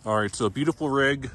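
talking while chewing steak; words round a bite of food; mouth full. Real, not acted. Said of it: "Sorry, I'm munching on some steak right now".

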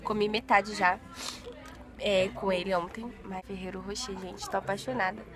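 usual speaking voice

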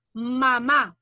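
"mamá" with the force on the last A; stress on final syllable. Shown as a demonstration. Teacher shows what the little line does, stressing the end of "mamá". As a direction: lean on the second syllable of "mamá". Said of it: "la mayor fuerza de voz".

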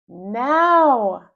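loud sharp call from mom; mom yelling. Acted. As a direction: yell it like an impatient mother. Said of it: "yells my mom".

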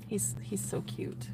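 breathy whisper, slow and lovestruck; whispered swoon. Real, not acted. Whispering to the camera about her crush, lovestruck. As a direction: sigh the words out like a dreamy secret.

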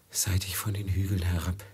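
hushed, distant recollection; whisper. Acted. Master whispering to Velid about the moment it began. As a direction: whisper it as if reliving it.

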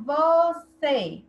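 "você" stretched into two drawn-out syllables, vo-cê; syllable-by-syllable stress. Shown as a demonstration. Teacher asking pupils which syllable is strongest, "você" stretched by syllable. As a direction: sound out "você" slowly, holding the final "cê". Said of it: "Qual é a mais forte?".

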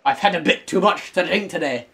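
lightly put-on Scottish; a touch of comic Scottish; Scottish accent. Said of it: "It's the Scottish hole now".

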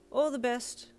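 gentle. A narrator's reading. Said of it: "with a gentleness in his voice".

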